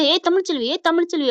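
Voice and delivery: high, mock yelling of a name; calling out. Angry woman summons rival out of her house, calling out. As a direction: call her out from the doorstep.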